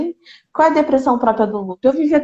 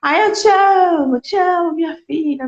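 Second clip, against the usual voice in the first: tipsy dad shouting; 5 semitones higher than usual. Retold or imitated. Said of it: "meu pai adorava gritar pros cantos assim, quando ele tava alteradinho".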